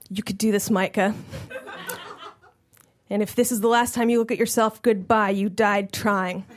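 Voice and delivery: low, soft mock-solemn goodbye; quiet dramatic farewell to yourself.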